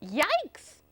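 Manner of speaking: high startled yelp, put on; a touch of cartoon panic; mild alarmed cry. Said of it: "cried the aliens".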